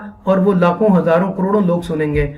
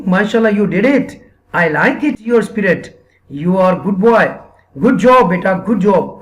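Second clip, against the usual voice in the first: cheerful praise; much slower than usual. Shown as a demonstration. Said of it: "آپ نے appreciate کرنا ہے اور اس کو تھپکی دینی ہے".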